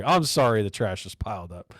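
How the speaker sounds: mildly mock-sorry; a touch of fake regret; sarcastic apology. Host jokes about striking workers' trash, understated sarcastic apology. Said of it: "I'm obviously being sarcastic".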